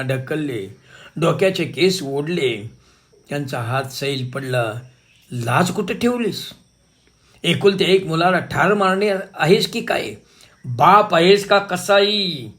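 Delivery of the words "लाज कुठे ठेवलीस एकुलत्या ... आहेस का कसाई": furious outburst. Retold or imitated. Mother confronting husband choking their son, enraged. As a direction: lash out at him, beside herself. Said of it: "मी बेभान झाले".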